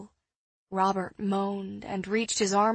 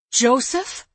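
sharp, high call of a name; calling sharply; 4 semitones higher, 9 dB louder than usual. A narrator's reading. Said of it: "Eliza called sharply".

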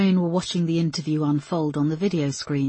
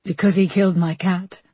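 sudden cry; 3 semitones higher, 4 dB louder than usual. A narrator's reading. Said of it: "she suddenly cried".

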